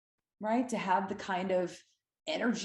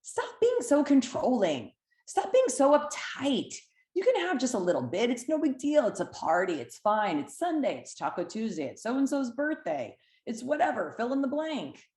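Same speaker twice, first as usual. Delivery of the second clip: coaxing indulger; 5 semitones higher than usual. Retold or imitated. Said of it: "It says".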